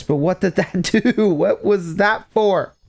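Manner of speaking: slow motion. Pretend. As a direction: drag it like a game slowdown. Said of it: "talk in slow motion".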